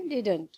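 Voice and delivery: didn't as one syllable; contracted didn't. Shown as a demonstration. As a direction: drop the o and say didn't. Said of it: "इसको pronounce करते हैं".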